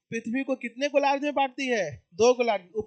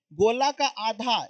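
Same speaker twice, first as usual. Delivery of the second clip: slow breakdown; slower than usual. Shown as a demonstration. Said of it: "संधि विच्छेद करेंगे तो गोला का आधा".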